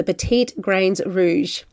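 slow, badly faked French accent; terrible French accent. Host naming a grape for listeners, bad French accent. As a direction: attempt the French name in an amateur French accent. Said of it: "in my terrible French accent there".

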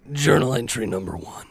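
a hint of a grizzled veteran, low; grizzled old veteran. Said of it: "like, grizzled old veteran".

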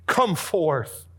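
commanding shout into the grave; thundering call. Acted. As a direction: call the dead man out of the tomb. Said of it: "his voice thundered out".

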